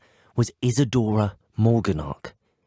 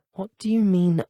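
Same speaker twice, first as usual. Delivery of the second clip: taken aback; 8 semitones higher, 4 dB louder than usual. Acted. Startled question about getting out.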